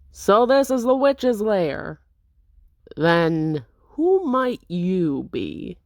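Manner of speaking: slow, hammed-up swashbuckler; theatrical intruder. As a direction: relish every word like a rogue. Masked intruder confronts apprentice.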